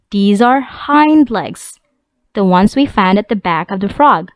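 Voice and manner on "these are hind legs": These are hind legs, each word drawn out slowly; slow classroom modelling of "hind legs"; slow, careful teacher model. Shown as a demonstration.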